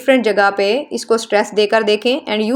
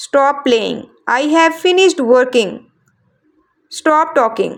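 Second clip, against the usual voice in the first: slow example sentences, each dropping on its last word; falling intonation; much slower than usual. Shown as a demonstration. Teacher demonstrating statements and commands, falling intonation on each last word. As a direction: let "store", "news", "fine", "certain", "talking" fall at the end. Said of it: "Falling intonation is used in statements and commands".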